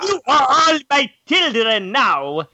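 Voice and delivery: slow, high, put-on Russian accent; a Russian villain accent that slides toward German. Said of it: "do no Russian accent".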